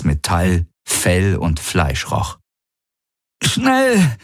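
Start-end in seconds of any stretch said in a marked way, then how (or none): 3.4-4.2 very high, strained call; pain-twisted shout. Acted. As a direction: cry it out in agony. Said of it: "mit schmerzverzerrter Stimme rufen".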